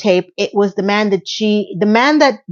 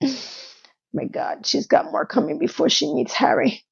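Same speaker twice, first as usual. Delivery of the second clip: sighed aside; 5 semitones higher, 8 dB quieter than usual. Real, not acted. Sighing aside.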